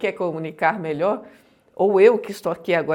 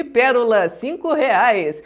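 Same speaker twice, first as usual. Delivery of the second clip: mock grand delivery, louder and very slow; showy intonation; 3 semitones higher, 7 dB louder, slower than usual. Shown as a demonstration. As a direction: oversell trivial words with big intonation. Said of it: "excelente entonação para falar abacaxi".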